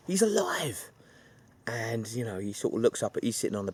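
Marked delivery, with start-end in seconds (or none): 0.1-0.9 whispered, hushed reveal. Retold or imitated. The duck's return revealed in a whisper. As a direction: breathe it as a secret.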